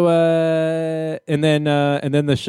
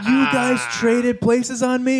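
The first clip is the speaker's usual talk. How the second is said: mock surprise; 10 semitones higher than usual. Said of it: "mock shock at swapped places".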